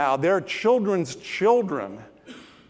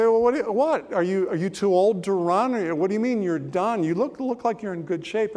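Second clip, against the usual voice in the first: puzzled surprise; 5 semitones higher than usual. Acted. Listener puzzled by dog.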